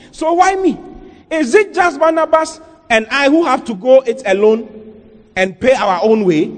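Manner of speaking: high, aggrieved challenge; acted indignation. Apostle Paul asking why he pays alone, acted indignation. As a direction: push the question up in protest. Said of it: "he was angry about it".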